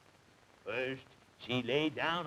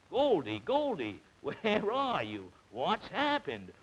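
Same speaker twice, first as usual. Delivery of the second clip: worried calling; 4 semitones higher than usual. Acted. Mother calling for Goldie.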